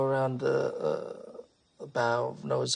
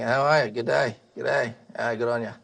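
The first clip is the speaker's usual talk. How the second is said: a touch louder, matey repeated greetings; lightly voiced Noah; 4 dB louder than usual. Noah keeps greeting staring animals, lightly voiced character. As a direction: lightly play a folksy greeter. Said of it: "He keeps saying".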